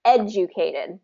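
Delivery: educated stressed on ed with a J sound; first syllable stress. Shown as a demonstration. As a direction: hit ed in educated. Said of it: "first syllable stress".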